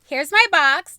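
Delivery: loud, high upbeat intro; vlog intro. Acted. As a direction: burst into a bubbly opener.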